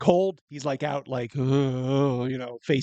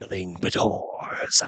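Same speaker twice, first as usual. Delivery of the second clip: much lower, demonic, venomous, menacing mutter; 7 semitones lower than usual. Storyteller voicing a man speaking under his breath, muttered with demonic venom. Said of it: "with almost like a demonic venom".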